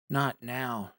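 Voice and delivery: low, hushed aside to himself; inward thought. A narrator's reading. Man woken at night grumbles inwardly, low and soft. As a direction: keep it soft and low, as if thinking. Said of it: "he thought".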